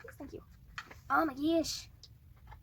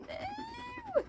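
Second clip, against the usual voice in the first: shrill high "No!"; much higher panicked no; alarmed cry. Real, not acted. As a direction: yelp it in sudden alarm. Figure falls on her box.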